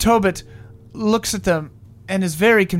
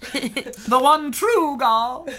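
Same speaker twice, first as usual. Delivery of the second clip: mock solemn; 4 semitones higher, much slower than usual.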